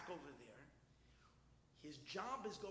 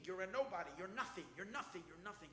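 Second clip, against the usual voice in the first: loud chant of defiance that fades; retold screaming; 5 dB louder than usual. Terrified man screaming at the fire-spewers, retold screaming. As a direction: hammer out each repeat, loud at first. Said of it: "but he's screaming".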